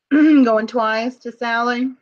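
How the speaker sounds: slow, drawn-out announcement; auctioneer call. Real, not acted. Auctioneer calling the lot.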